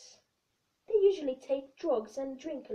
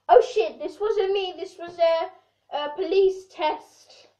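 mock panic; 6 dB louder than usual. Caught out, panicked excuse.

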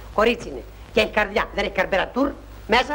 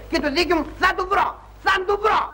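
defiant shout; 7 semitones higher than usual. Acted. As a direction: build up to a defiant cry. Defiant outburst against the colonel. (προκλητική κραυγή που δυναμώνει)

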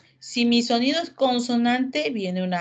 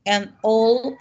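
An owl with An said louder; stressing the article an; 4 dB louder than usual. Shown as a demonstration. Teacher correcting a student's article, stressing An. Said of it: "porque viene un sonido vocal".

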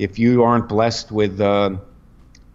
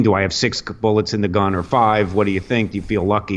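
Dirty Harry quote; 4 semitones lower, faster than usual. Retold or imitated. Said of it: "that bank robbery scene".

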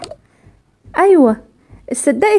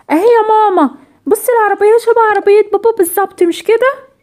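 put-on excited little girl; 6 semitones higher than usual. Daughter shows mother the car, excited. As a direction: point it out eagerly, proud to be right.

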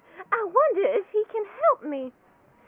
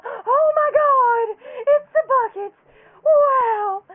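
excited discovery; 3 semitones higher, 6 dB louder, slower than usual. Pretend. Finds the lost bucket.

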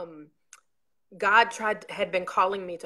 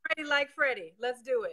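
upbeat reply; 6 semitones higher than usual. Real, not acted. Guest answers hype with hype.

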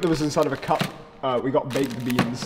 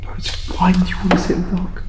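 whispering; 4 semitones higher than usual. Real, not acted. Sitting in the dark.

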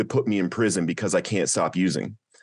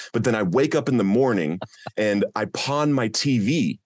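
angry plea to God; 3 semitones higher than usual. Retold or imitated. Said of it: "the first thing I felt was anger".

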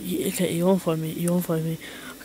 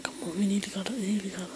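whispering; 6 dB quieter, much faster than usual. Real, not acted. Tense hiding, waiting.

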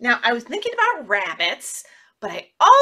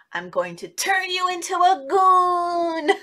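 stern fairy; 6 semitones higher, slower than usual. Acted. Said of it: "And she said".

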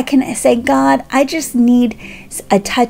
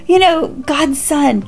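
hammed-up offended squeal, much higher; mock indignant outburst; 9 semitones higher than usual. Pretend Jesus snapping at John's doubt, mock indignant and high. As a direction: play a pretend huffy Jesus, pitched way up. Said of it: "Jesus didn't get upset and go".

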